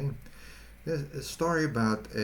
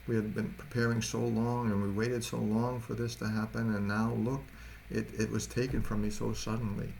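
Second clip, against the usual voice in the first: put-on grieving young mother; 3 semitones higher than usual. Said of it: "really grieving and sobbing".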